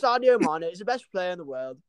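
lightly hammed-up British accent; imitated football fan. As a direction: imitate an English fan's proud declaration. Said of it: "He goes".

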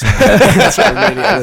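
giggling through it; laughing. Real, not acted. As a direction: laugh while you say it. Laughing about yawning.

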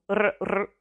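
"r, r" as short rolled trills. Shown as a demonstration. Teacher showing the hard double R, "r, r" trilled. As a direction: trill each "r" on the tongue. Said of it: "rolling your R's".

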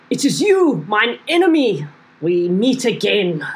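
dramatic goblin. Acted. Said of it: "in Goblin I'm going to say".

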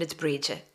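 Bridget said Irish-style as BREE-juh; Irish-style Bridget, long ee, no final t; Irish pronunciation. Shown as a demonstration. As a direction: say Bridget as "breed-juh", soft final vowel. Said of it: "like, an Irish, um, pronunciation".

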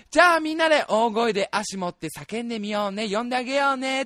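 lightly voiced kids' event host; children's show host. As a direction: coax the children into calling together. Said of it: "みたいなことをお兄さんが言って".

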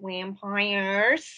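"vampires" said with a w-like first sound; odd pronunciation. Real, not acted. Explaining the show, "vampires" opened on a w. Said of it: "Why is he saying it like that?".

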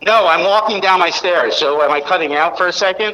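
echoey phone voice in a hallway; sounding like an empty hallway. Real, not acted. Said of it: "you just sound like you're in a hallway".

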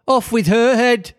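high, imperious Queen shout; high-pitched royal command, punched out. A narrator's reading. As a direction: raise it high and order the execution. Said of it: "quarrelling with the other players and shouting".

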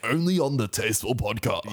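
mock promo voice; Chris Hemsworth. Co-host plugs the podcast, light mock promo voice. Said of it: "you sound like Chris Hemsworth when you say that".

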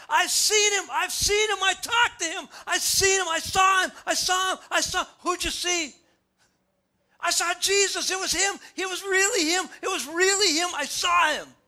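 Mary running to tell the disciples, yelling with joy; excited shouting. Acted. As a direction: shout the news you can't contain. Mary acted shouting the news.

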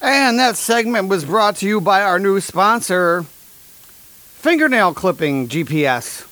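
a touch of a radio ad pitch; mock sponsor announcement. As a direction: lightly announce the sponsor like a cheesy commercial.

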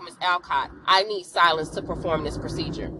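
mildly cold, curt retold nurse; understated chilly professional dismissal. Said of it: "didn't have to be so cold about it".

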